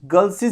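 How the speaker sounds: put-on गर्ल्स said as "girl-siziz"; doubled s. Shown as a demonstration. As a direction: add a buzzing extra ending to गर्ल्स. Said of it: "इसमें दो बार एस आ जाता है".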